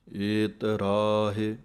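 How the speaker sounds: slow, measured chant of scripture, each word drawn out; slow Gurbani recitation. Shown as a demonstration. Teacher recites the verse for students, slow chant.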